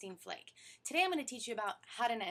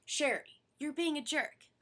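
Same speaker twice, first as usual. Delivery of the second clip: name-calling; 6 semitones higher, 5 dB louder, slower than usual. Retold or imitated. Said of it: "outright calling you names".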